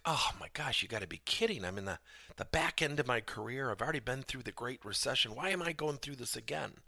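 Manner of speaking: a touch of hammed-up disbelief; retold exasperation. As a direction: replay your own incredulous complaint, mildly exasperated. Acting out his dismay at crisis.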